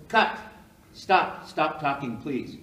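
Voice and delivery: loud retold interruption; calling a halt. Producer stopping the endless audition, loud interruption.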